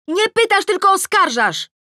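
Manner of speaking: high, loud accusing yell; shout. A narrator's reading. Tosia quarrelling from upstairs, shouting. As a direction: shout it back in protest. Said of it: "krzyczy Tosia".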